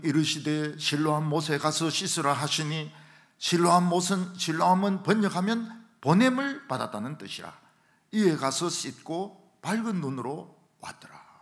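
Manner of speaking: loud, evenly intoned Bible reading; scripture reading. Real, not acted. Preacher reading the verse about Siloam, loud measured recitation. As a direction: read the verse out firmly to the congregation.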